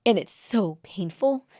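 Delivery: slow, strained with real hurt; emotional. Real, not acted. Host sharing her hurt, slow and emotional. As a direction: let the pain slow the words down. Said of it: "I'm getting emotional".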